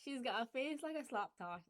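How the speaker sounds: broad Glasgow idiom; Glaswegian saying. Shown as a demonstration. Sharing a favourite saying, Glaswegian. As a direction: relish the Glasgow insult. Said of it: "one of my personal favourites".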